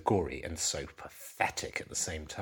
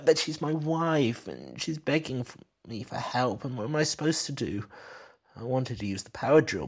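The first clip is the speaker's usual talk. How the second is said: nervous husband; 6 semitones higher than usual. Acted. Husband explaining himself to detective.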